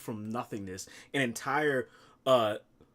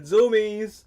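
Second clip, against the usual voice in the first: mock scream; 6 semitones higher, 7 dB louder, much slower than usual. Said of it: "he's gonna be screaming".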